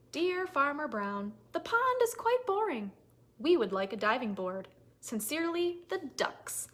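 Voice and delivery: ducks' note. Acted.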